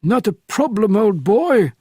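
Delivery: put-on high, lilting English gentleman accent; perfect English accent. A narrator's reading. Frenchman reassures Bourne as an Englishman, polished English accent. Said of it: "in a perfect English accent".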